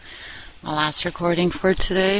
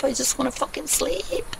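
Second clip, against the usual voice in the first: a mild mock rant at bedtime; mock screaming; 7 semitones higher, 6 dB quieter than usual. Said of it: "I start screaming and yelling like".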